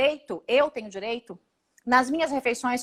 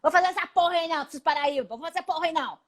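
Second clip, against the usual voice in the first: mocking the president; 3 semitones higher, faster than usual. Deputy mimics the president refusing the Northeast, crude and dismissive. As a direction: sneer it like the boss waving people away. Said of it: "é o jeito que o presidente fala".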